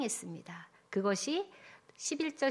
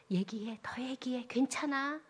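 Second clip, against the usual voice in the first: gentle reassurance; 4 dB quieter than usual. Acted. God voiced consoling.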